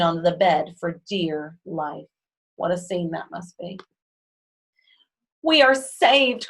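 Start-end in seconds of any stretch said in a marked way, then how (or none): 5.4-6.5 slow, loud, high relief; relieved cry. A narrator's reading. Rescued couple crying out, slow and loud. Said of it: "cried the Watsons".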